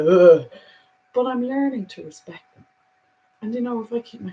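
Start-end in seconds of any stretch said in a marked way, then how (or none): 0.1-0.5 short louder groan of disgust; disgusted ugh. Retold or imitated. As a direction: shudder at the thought of rats. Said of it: "They still give me a bit of a".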